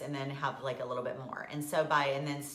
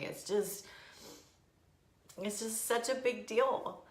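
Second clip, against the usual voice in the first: crying. Real, not acted. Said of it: "I'm crying".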